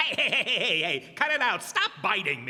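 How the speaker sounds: protesting. Acted. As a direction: fend off a biting creature, half laughing. Griffin biting him.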